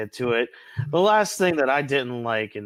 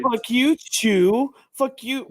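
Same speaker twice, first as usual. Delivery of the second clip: high, loud mock jeering; jeering demons; 10 semitones higher, 4 dB louder, slower than usual. Imitating demon spectators jeering at Chu. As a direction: heckle like a bloodthirsty crowd. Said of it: "They're all like".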